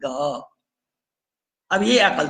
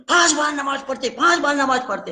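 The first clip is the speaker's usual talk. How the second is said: mocking quote; 7 semitones higher than usual. Mocking the critics' complaint.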